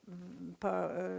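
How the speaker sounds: usual speaking voice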